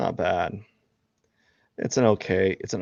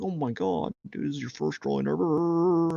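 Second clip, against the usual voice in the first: gushing fan; 8 semitones higher than usual. Retold or imitated. Imitating gushing fans.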